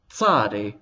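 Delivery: "tzadi" starting with t before the s; extra initial t. Shown as a demonstration. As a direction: demonstrate "tzadi" with a ts onset. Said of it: "with something extra at the beginning".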